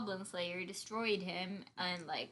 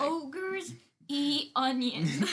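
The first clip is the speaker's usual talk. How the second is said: Shrek voice; 5 semitones higher, much slower than usual. Retold or imitated. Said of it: "Yeah, it was Shrek".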